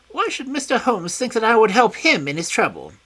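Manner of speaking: high, loud wary voice; high guarded villain; high suspicious question. A narrator's reading. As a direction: probe what Holmes wants. Smith suspicious.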